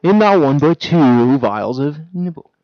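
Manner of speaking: infomercial. Pretend. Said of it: "we just made an infomercial".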